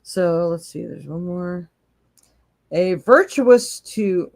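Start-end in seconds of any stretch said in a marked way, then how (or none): 2.7-4.3 slow, word-by-word stumbling read of "virtuous to"; reading the screen, stumbling slowly over "virtuous to"; halting read. Real, not acted. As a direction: sound out "virtuous to" unsure of the text.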